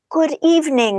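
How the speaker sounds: put-on British accent. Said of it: "Totally British accent".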